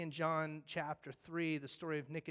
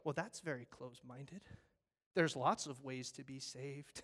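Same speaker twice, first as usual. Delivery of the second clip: smug; 3 semitones lower than usual. Acted. Congregation dismissing the firefighter, smug. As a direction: scoff like a know-it-all. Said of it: "And we go".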